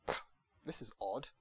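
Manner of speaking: low, soft, unimpressed mumble; indifferent shrug. Retold or imitated. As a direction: shrug it off as meaningless. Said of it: "it's just like".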